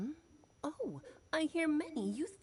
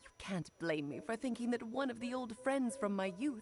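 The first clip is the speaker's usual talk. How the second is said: put-on coy, sugary old friend; simpering. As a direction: play it sweetly coy. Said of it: "she sounds so coy all of a sudden".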